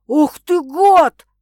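медленно и громко, с яростью выкрикнуть; громкий злой выкрик на обидчика; гневный крик. A narrator's reading. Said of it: "гневно кричит Макс". (Макс гневно кричит на обидчика, медленно и громко)

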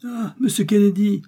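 high-pitched, merry exclamation; high, delighted call; amused outcry. A narrator's reading. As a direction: cry out as if about to burst out laughing. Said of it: "s'écria Joey en éclatant de rire".

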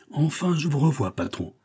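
high-pitched outburst, dropping on the last word; relieved exclamation. A narrator's reading. Breathless helper greeting his boss, exclaiming. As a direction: cry out at finally seeing the boss. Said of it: "s'écria-t-il".

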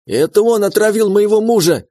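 high, loud fake-tearful shriek pointing at him; screaming accusation. A narrator's reading. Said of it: "заорала она". (громкий пронзительный крик обвинения, с показными слезами)

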